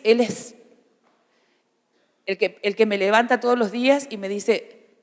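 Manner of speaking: normal talking voice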